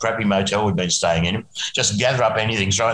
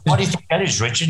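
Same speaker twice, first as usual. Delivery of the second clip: sour mockery; 3 semitones higher than usual. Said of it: "this sour look and he said".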